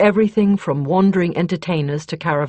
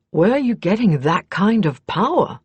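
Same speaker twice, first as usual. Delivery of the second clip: raised pitch, louder, caught off guard; surprised question; 4 semitones higher, 5 dB louder than usual. A narrator's reading. Justin to Kethri about her power, surprised. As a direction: ask it as if startled by the news. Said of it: "Justin asked in surprise".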